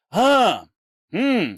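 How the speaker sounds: high, loud, exaggerated swooping exclamations; put-on discovery. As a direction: mimic someone making a show of finding it. Driver acts out spotting the place.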